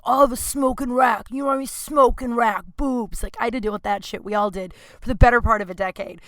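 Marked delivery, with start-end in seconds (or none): 0.0-3.2 lightly voiced leering bar guy; a hint of a smug sleazy customer; mocking a douchebag. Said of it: "douchebags being like".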